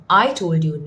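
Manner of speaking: "I" stands out, "told you" falls behind it; stress on I. Shown as a demonstration. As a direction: punch "I" as the one who told. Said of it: "no one else told you".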